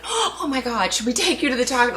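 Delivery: gasp, then high hushed fretting; mock panicky overreaction, quick and soft; overanxious parent, lightly acted; worried mother. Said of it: "coughs, and I'm like".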